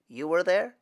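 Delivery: astonished question in a whisper; surprised whisper. Acted.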